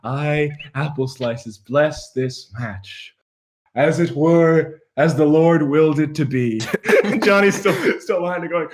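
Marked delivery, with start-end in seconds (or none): 0.0-6.6 slow, low and solemn, a mild holy pronouncement; lightly voiced oracle over the loudspeaker; grand proclamation. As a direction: bless the match like a deity, slowly. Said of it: "over the loudspeaker, goes".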